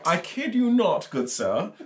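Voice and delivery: playful attempt at an English accent; mock English accent. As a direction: put on an English accent, starting high. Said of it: "Usually accents are trash".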